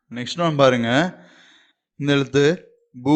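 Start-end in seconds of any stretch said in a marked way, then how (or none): 3.0-3.2 பூ with a long, held oo; long vowel. Shown as a demonstration. Teacher shows learners the Hindi letter, long vowel. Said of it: "இது நெடில நீங்க உச்சரிக்கணும்".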